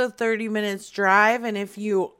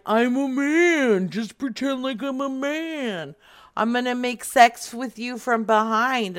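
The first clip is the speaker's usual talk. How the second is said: voice modulator voice; 2 semitones higher than usual. Retold or imitated. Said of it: "talking into a voice modulator".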